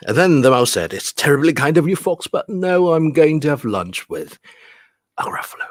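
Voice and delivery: lively, lilting picture-book reading; story reading. Acted. Teacher reading mouse and fox dialogue, animated storytelling. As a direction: animate the dialogue, hushing for the Gruffalo.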